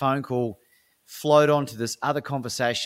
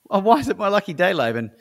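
curious CEO; 8 semitones higher, 5 dB louder, faster than usual. Retold or imitated.

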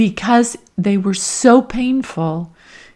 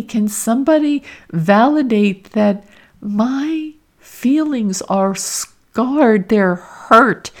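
put-on inner little girl; 2 semitones higher than usual. Woman voicing her neglected inner child, mildly pleading. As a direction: let the hurt child inside plead for attention, only lightly voiced. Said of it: "a little girl who was screaming out and saying".

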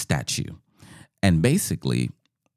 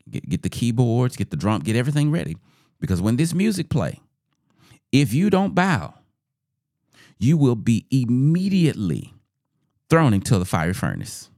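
higher, deliberate royal ultimatum; threatening king; 5 semitones higher than usual. Acted. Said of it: "the king is questioning them".

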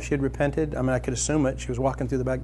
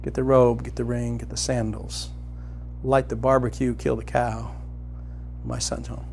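tender father; 3 semitones lower, 4 dB quieter than usual. Acted. Father joyfully orders servants.

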